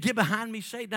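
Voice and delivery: forceful retold command; loud rebuke. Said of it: "he said".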